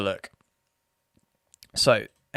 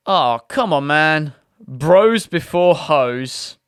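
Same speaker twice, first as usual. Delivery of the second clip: louder, slow, drawn-out bro appeal; mock bro plea; 2 semitones higher, 4 dB louder, much slower than usual. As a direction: lean on each word slowly, like a pleading mate. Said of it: "so then he goes".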